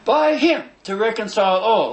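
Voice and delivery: "all" held long at the end; stress on all. Real, not acted. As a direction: land firmly on a lengthened "all". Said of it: "Let me spell that".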